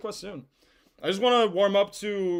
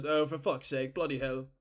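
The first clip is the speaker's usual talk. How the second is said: put-on British accent; 2 semitones lower than usual. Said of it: "Mark Goldbridge is British".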